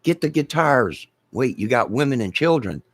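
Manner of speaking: mock rescue order; mock panicked captain. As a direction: bark it like a captain saving the wrong cargo. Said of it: "It's like".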